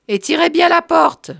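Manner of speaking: high, loud parting order; calling after them. A narrator's reading. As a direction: call out to people on their way out. Marthe calls after departing men.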